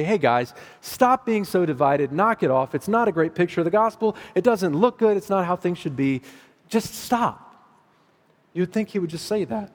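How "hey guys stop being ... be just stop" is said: mock scolding. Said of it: "You would think Paul would just say".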